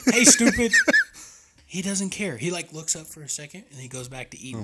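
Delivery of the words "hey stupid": high, loud holler with a laugh; retold yell. Hunter hollering at an unbothered buck, laughing retold yell. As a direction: call out louder, amused at yourself. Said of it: "I just kept yelling".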